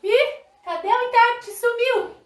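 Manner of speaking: high, loud cry of playful surprise; mock alarm. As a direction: call out as if someone has suddenly vanished. Acts viewers missing the vanished interpreter.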